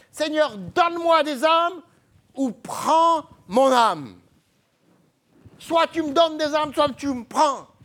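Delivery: fervent, high, loud pleading cry.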